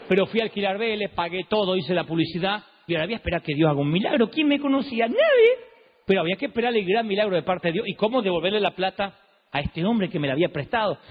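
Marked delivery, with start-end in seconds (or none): 5.1-5.5 much higher and louder, a sudden cry; emphatic shout. Real, not acted. Preacher answering who knew him, shouting. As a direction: fling the answer out at full voice. Rhetorical answer to his own question.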